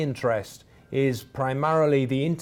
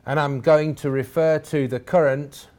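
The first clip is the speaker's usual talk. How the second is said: current given extra weight at the end; stress on current. Shown as a demonstration. Lecturer telling the seminar audience he stresses the word, current pressed firmly. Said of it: "and I emphasize the word current".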